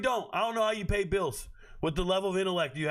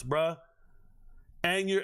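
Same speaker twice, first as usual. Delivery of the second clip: normal talking voice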